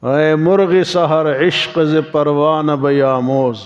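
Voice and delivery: slow, measured poetic recitation; Persian verse recitation. Real, not acted. Preacher reciting a Persian couplet to listeners, slow recitation. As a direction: recite the couplet slowly, drawing out the line ends. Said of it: "فارسی کا شعر مجھے یاد آ رہا ہے".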